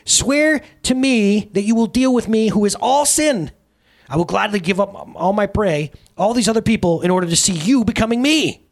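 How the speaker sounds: very high, loud, shrieking glee; hysterical delight. Acted. Sin shrieks with glee at the carpenter's oath. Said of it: "another scream of hysterical delight".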